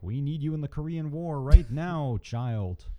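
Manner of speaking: loud high mock presidential call; Harry Truman voice. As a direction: shout it like a president summoning. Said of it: "Harry Truman was like".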